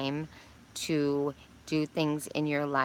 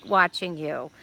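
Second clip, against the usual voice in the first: pleading protest; 8 semitones higher than usual. Retold or imitated. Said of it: "I was like".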